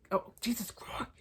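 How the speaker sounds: breathy whisper of disbelief; whispered exasperation. Real, not acted. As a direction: mutter it under your breath, fed up. Exasperated aside to herself.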